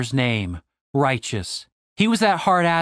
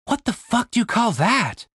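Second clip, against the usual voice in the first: higher, scornful disbelief; incredulous; 7 semitones higher than usual. Acted. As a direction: sneer at the bad dancing. The speaker mocking their dance.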